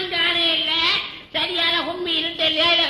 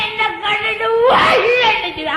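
acted outcry; 5 semitones higher, 4 dB louder than usual. Acted outcry while retelling a fright.

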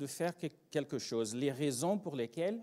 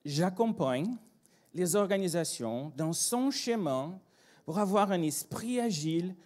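deliberate, raised buzzword pitch; mock-earnest consultant explaining to mum; jargon recital; 4 semitones higher, 3 dB louder than usual. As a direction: reel off the corporate pitch phrase by phrase. Acted son reciting jargon to his mother.

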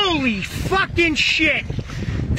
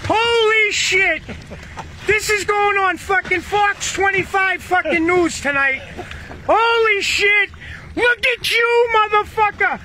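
excited shouting; 5 semitones higher than usual. Real, not acted. Fisherman shouting to his buddy over the huge catch, thrilled yell. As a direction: shout it out, stunned by the size of the catch.

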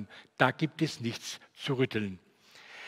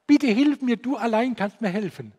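much higher, loud desperate plea; loud cry for help; 8 semitones higher, 8 dB louder than usual. Retold or imitated. Blind man shouting to Jesus for help. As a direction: shout it out from behind the corner. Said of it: "ganz laut gerufen hat".

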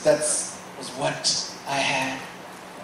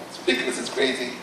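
unvoiced whispered aside; breath-only private thought; hushed amazement; 5 dB quieter, faster than usual. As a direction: whisper it to yourself in disbelief. Awed thought repeated to himself.

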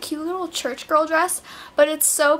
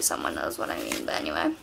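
deep voice; 9 dB quieter than usual. Pretend. Mock-deep aside to viewers.

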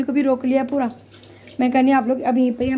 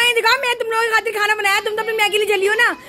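playful grievance, higher and faster; mock complaint; 7 semitones higher, faster than usual. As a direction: tease the sisters-in-law with pretend outrage. Complaining to sisters-in-law.

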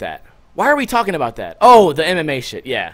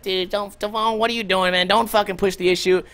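imitated girlfriend, lightly raised pitch and hushed; pleading girlfriend; 3 semitones higher, 4 dB quieter than usual. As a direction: plead softly as a worried girlfriend. Girlfriend voiced pleading in the story.

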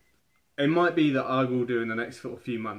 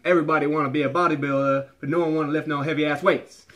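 a bad, louder put-on American bodybuilder accent; hammed-up Ronnie Coleman accent, half shouted; awful Ronnie Coleman accent; 4 semitones higher, 6 dB louder than usual. Fitness vlogger quoting Ronnie Coleman in a bad American accent. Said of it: "that was an awful accent".

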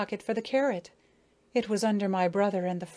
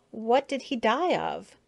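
sympathetic; 3 semitones higher than usual. A narrator's reading. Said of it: "asked Maya in genuine sympathy".

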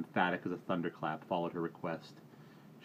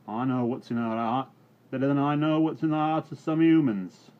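put-on loud, high, aggrieved old countryman; a wounded old yokel pleading for his beasts; indignant old rustic; 4 semitones higher, 6 dB louder than usual. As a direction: scold him like a wronged old farmhand. Old farmhand Adam scolding Reuben.

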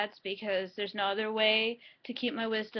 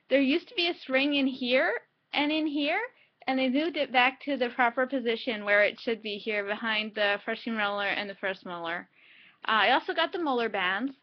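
talking with cheek held back; lip pulled aside with fingers. Real, not acted. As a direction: mouth stretched open by hand. Seen 0: Fingers stretch lip corner open, showing teeth, throughout labelled words.

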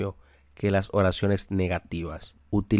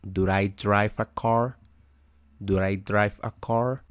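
slow model question. Shown as a demonstration. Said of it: "y sería".

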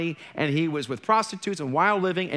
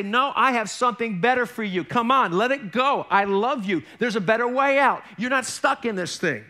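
a touch higher, gentle urging; God reassuring; 4 semitones higher than usual. Retold or imitated. God calls the stuck believer, lightly raised reassurance. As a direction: coax him out with love. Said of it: "And God would say".

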